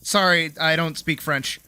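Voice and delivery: lightly imitated Boston accent; a hint of a Boston accent; mock Bostonian with a light Boston accent. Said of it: "he said with a Boston accent".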